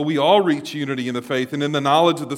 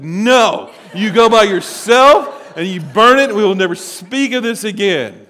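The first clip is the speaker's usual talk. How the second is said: loud, final command; a mildly loud leader ordering him to burn it alone; firm order; 5 semitones higher, 8 dB louder than usual. Retold or imitated. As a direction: shut it down for good. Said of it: "I said".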